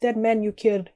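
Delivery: amateur attempt at a Russian accent; thick Russian accent. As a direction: guess at a Russian villain's accent. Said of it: "he says in a thick Russian accent".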